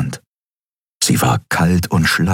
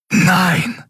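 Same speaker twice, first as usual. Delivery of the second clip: high, desperate cry of refusal; inner scream; 11 semitones higher than usual. A narrator's reading. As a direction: cry out in horror, high-pitched. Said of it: "schrie alles in Mikos Geist". (hoher, entsetzter Aufschrei)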